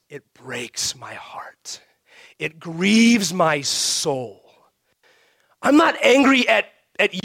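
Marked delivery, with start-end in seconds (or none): 0.1-4.5 slow, whispered heartbreak; grieved. Retold or imitated. Pastor voicing a believer's grief, slow and whispered. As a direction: breathe it out slowly, grieving.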